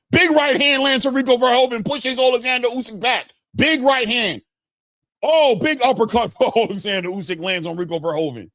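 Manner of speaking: high-pitched, excited ringside shout; excited fight call. Real, not acted. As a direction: erupt as the big punches land. Big punches land in live commentary.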